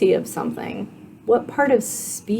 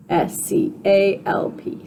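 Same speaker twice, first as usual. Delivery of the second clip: whispered spelling. Shown as a demonstration. Teacher whispering the spelling for students to write. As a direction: spell each letter in a slow whisper. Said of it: "handwriting this is gonna stick it".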